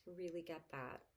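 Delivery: calm validating voice; mother comforting a scared child; reassuring parent. Shown as a demonstration. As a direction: soothe and validate. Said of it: "I would say".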